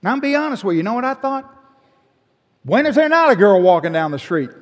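loud, high, mock-incredulous aside; bursting out with a wry joke to the congregation; sarcastic aside. Real, not acted. Pastor jokes to the congregation, loud and incredulous. Joking aside about the girl.

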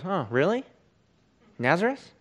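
mildly snarky, sceptical questioning; lightly mock the very idea; kinda sarcastic. Nathanael doubting Philip's news, mildly sarcastic. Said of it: "Nathanael's kinda sarcastic".

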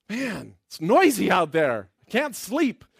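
lightly voiced grumbling king; sleepless king. King kept awake by gallows building outside, lightly voiced grumble. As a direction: complain like someone kept awake by noise.

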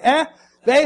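a hint of a hard-of-hearing old man. Dad mimicking an old man who can't hear. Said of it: "that old man thing".

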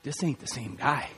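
very low, hushed voice; boxer's quiet reply. Retold or imitated. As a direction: say it low and under your breath. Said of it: "Lewis just looks at him and goes".

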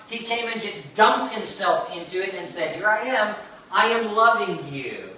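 emphatic, deliberate preaching. Real, not acted. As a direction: proclaim it to a congregation, weighting the key words.

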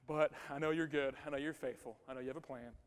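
a psalmist's quiet confession of faith; quiet trust. Acted. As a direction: settle into calm trust, dropping away. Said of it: "there's always a".

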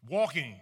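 Walking. hit loud and incredulous; indignant repeat. Real, not acted. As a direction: repeat the word Walking with disbelief.

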